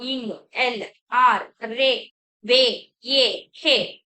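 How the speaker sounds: slow, drawn-out letter sounds, each one stretched; teacher sounding out consonants one by one, slowly; reading out the sounds. Shown as a demonstration. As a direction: sound out every consonant clearly for the class. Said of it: "ఇవి ఎలా పలకాలి అని కూడా ఇచ్చారు".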